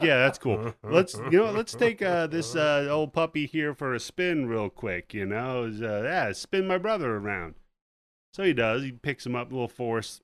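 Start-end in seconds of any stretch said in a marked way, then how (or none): 0.0-7.5 woman's voice pitched much higher and louder; breezy heroine voice. Retold or imitated. Spoonie brushing off the villain's threats, breezy and high. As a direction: toss it off lightly, way up high.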